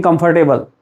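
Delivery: "comfortable" as comfor-table; "comfortable" with a full tay-bul at the end; wrong comfortable. Shown as a demonstration.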